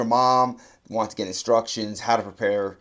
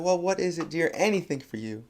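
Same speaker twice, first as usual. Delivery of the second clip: great grandmother; 7 semitones higher than usual. Retold or imitated. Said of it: "great grandmother's so exci".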